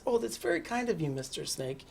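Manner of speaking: lightly imitated polite mouse, quick. Mouse answers Mister Snake, lightly imitated politeness. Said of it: "how polite he is".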